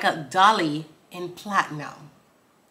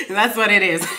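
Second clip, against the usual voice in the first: ordinary talk, nothing marked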